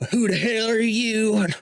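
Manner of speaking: gnome guard. Acted. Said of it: "And he goes".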